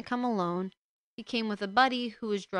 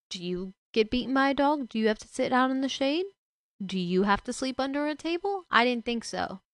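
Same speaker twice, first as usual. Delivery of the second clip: angry sarcasm; 4 semitones higher, 4 dB louder than usual. Real, not acted. Sarcastic questions to the father.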